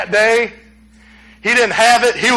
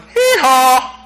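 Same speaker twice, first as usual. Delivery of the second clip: Sam Wainwright; 3 semitones higher than usual. Acted. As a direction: bray it out as a jokey greeting. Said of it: "The guy went".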